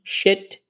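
"Shit" with a short open e; short vowel shit. Shown as a demonstration. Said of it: "shit é a palavra ruim".

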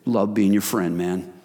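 soft, grateful words to a friend; tender thanks. Shown as a demonstration. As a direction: say it softly and sincerely. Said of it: "and say".

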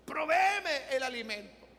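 a retold desperate prayer that builds; praying widow. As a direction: plead to God, rising in volume and pitch. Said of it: "Y ella decía".

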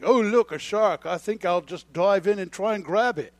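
hammed-up Australian adventurer; Australian accent. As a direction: attempt an Aussie Crocodile Dundee voice. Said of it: "like he's Crocodile Dundee or something".

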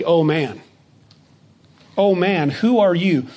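mildly emphatic "who are you"; quoted challenge, lightly pressing "who are you". Retold or imitated. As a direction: lean gently on "Oh man" and "who are you". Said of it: "It's emphatic".

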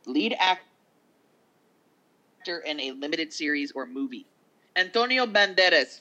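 light awards-show announcer impression. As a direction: present the nominees like a host. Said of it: "I'm trying to sound like the announcer chick on the show".

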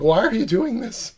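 high, loud incredulous whine; mock shocked reader. Shocked reader complaining to the writer, whining high. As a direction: play the outraged fan. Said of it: "They were like".

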